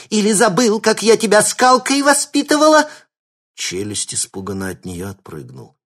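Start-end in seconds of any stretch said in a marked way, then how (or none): 0.1-2.9 much higher, louder scolding granny shriek; old woman shouting. A narrator's reading. Shapeshifter as granny scolding the thug, shrieking. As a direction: shriek like an outraged old lady. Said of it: "выкрикнула старушка".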